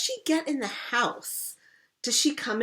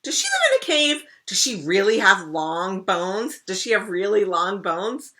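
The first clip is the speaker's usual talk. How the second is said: rapid, high, loud eager questioning; excited questions; 4 semitones higher, 6 dB louder than usual. Acted. Rascal pestering her siblings with eager questions, high and loud. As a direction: fire off questions bursting with curiosity.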